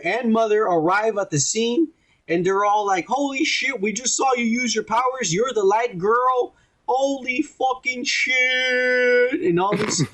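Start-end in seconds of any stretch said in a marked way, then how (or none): 3.1-9.4 mock shock. A podcaster mimicking a grandmother and mother, in mock shock.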